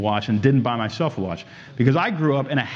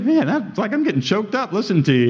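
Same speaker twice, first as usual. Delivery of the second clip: mock choked-up jeweler; 6 semitones higher than usual. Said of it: "he was like".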